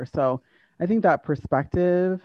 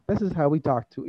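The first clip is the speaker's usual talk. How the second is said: lightly put-on Ghanaian rhythm; Ghanaian-accented, evenly placed words; Ghanaian English accent. Shown as a demonstration. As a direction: demonstrate Ghanaian-style English cadence. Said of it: "And the rhythm of talking".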